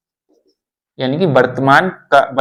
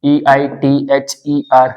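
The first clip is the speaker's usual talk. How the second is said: letters read out one by one, very slowly; slow letter-by-letter spelling; much slower than usual. Shown as a demonstration. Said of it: "जैसे ये लिखा ना".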